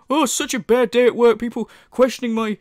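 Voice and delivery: mock woe over a bad day; put-on moaning sympathy; sarcastic mock pity. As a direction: pretend to feel sorry, laying it on.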